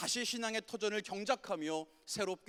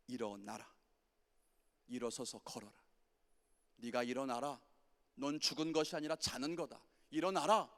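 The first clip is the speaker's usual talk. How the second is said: tender command; 4 semitones lower than usual. Retold or imitated. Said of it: "이렇게 말씀하시는 거예요".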